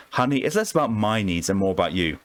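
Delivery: a hint of a Southern charmer calling him formal; Southern belle accent. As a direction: play a coy Southern woman flirting with the doctor. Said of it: "God, I hate this accent".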